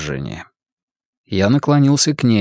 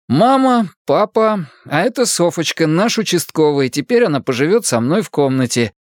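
mock announcement; 6 semitones higher than usual. Imagined announcement to parents.

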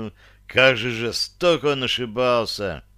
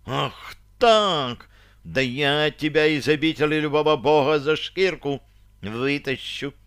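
a shrill, unearthly cry, slightly higher; inhuman shriek; 3 semitones higher than usual. Acted. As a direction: scream it like an enraged ghost. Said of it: "вскричала нечеловеческим голосом".

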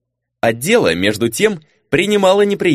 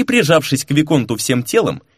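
usual speaking voice

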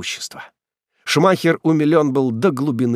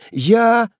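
put-on hesitant girl; 12 semitones higher, 5 dB louder than usual. Ethel starts and stops.

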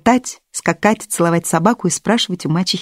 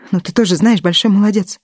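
sarcastic. Acted. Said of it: "продолжала мачеха язвительно".

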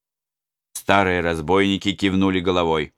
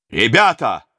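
calling out; 5 semitones higher, 6 dB louder than usual. Acted. Prince addresses the robbers.

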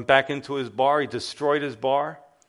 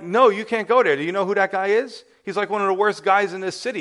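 higher and louder, hurried alarm; alarmed warning; 5 semitones higher, 3 dB louder, faster than usual. Retold or imitated. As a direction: elders panicking, talking fast to stop him. Alarmed elders warn Finney.

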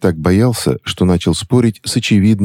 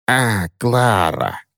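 very slow drawn-out dawning; slow dawning recognition; realizing crone; 5 semitones higher, much slower than usual. Acted. Witch recognizes the teacher, slow drawn realization. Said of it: "догадалась старуха".

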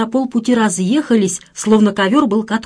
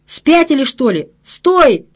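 alarmed shout, much higher; 4 semitones higher, slower than usual. Acted. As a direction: yell at them to stop. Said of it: "закричал я".

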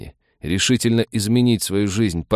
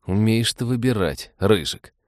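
relieved mumble; 3 semitones higher than usual. Acted. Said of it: "с облегчением пробормотал лейтенант".

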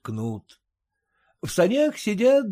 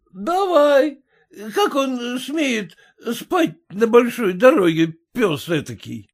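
rowdy merchant; 9 semitones higher, 5 dB louder than usual. A narrator's reading. Merchant urging.

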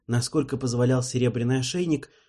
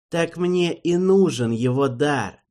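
reasonable; 5 semitones higher, 5 dB louder, slower than usual. Acted. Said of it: "здраво возразил узурпатор".

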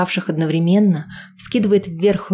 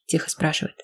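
ordinary delivery

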